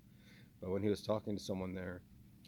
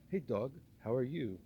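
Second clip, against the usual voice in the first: mock Boston greeting, pitched up; Mark Wahlberg impression; 4 semitones higher, 3 dB louder than usual. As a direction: parody a Boston tough guy's hello. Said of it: "Kinda like the, the Adam Sandberg ... Wahlberg".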